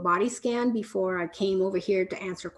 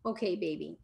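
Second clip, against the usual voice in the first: gentle opener; 4 semitones lower, 6 dB quieter than usual. Shown as a demonstration. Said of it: "start with".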